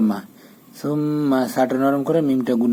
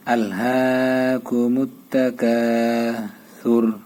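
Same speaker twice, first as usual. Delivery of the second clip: slow recitation; slower than usual. Shown as a demonstration. Teacher modelling the verse for students, slow chant. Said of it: "এখানে নরম করে পড়বেন".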